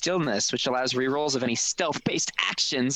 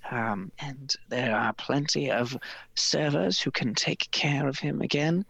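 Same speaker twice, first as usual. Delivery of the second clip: eager servant voice; 3 semitones higher than usual. Acted. Character pitching stable, held voice.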